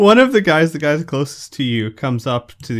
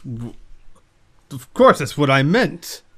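mild stutter; 5 dB louder than usual. Acted. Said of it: "he stutters a bit and he says".

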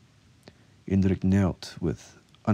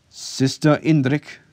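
loud, high, drawn-out summons; calling out; 9 semitones higher, 7 dB louder, slower than usual. A narrator's reading. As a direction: call across to a guard. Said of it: "she called to the guard".

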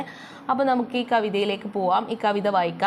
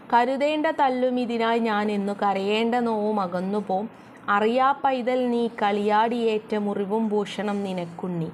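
poem recitation. Shown as a demonstration. Teacher recites next verse.

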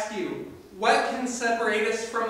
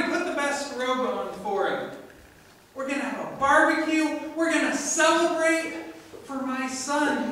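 higher, louder festive orders; rally the servants to celebrate; jubilant father; 5 semitones higher, 5 dB louder than usual. Acted.

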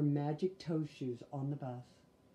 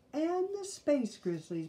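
mother; 9 semitones higher than usual. Acted. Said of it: "began Mama".

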